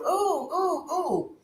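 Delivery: high laughing oh oh; mock laughing gasp.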